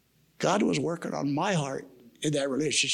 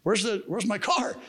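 higher-pitched demanding question; retold complaint; 5 semitones higher, slower than usual. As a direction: imitate someone asking after a car, pitched up. Retold argument over a car.

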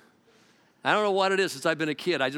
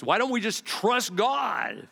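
calm man of faith; 6 semitones higher, slower than usual. Retold or imitated. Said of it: "somebody comes in who has a spirit of faith".

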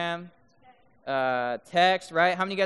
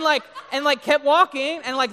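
ordinary talk, nothing marked

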